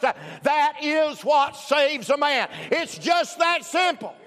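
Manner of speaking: measured, punched pulpit proclamation; emphatic preaching. Real, not acted. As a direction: drive each phrase home to the congregation. Preaches at full force.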